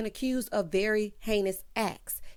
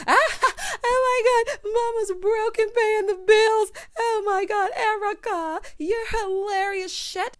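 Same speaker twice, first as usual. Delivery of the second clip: shrill cackling fake laugh, very high and loud; mock fake laughter; 13 semitones higher, 6 dB louder, slower than usual. Dorit and Kyle cackling at Erica's joke, mocking fake laughter. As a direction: laugh it up like a phony friend. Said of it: "He go, Dorit and Kyle".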